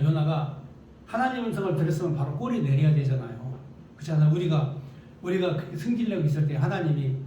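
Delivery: ordinary delivery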